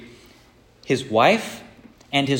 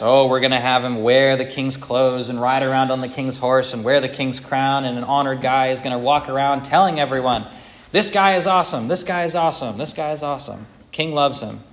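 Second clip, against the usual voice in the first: louder, eager pitch-up proposal; eager Haman; 3 dB louder than usual. Retold or imitated. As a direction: sell it like a smug man describing his own honor. Haman proposes, acted quote.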